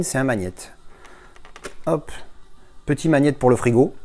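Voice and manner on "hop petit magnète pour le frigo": lilting item announcement, lifted at the end; cheap-sounding label. Real, not acted. Unboxer showing viewers a fridge magnet, cheap-sounding lilt. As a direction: present it like a cheap little novelty. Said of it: "quand on le dit comme ça, ça fait super cheap".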